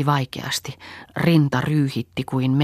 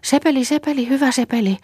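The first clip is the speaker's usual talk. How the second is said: much higher, nervous coaxing; trembling voice; 12 semitones higher, 3 dB louder than usual. A narrator's reading. Frightened Saara coaxing the dog, high nervous call. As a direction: call the dog with forced sweetness. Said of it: "vapisevalla äänellään virkkoi".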